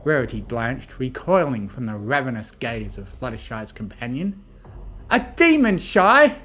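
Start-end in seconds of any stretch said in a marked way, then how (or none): 5.1-6.4 high, loud, astonished outburst; excited exclamation. A narrator's reading. Rainbow reacting to Fluttershy's companion, excited. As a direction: exclaim it, pitched way up. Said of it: "Rainbow exclaimed excitedly".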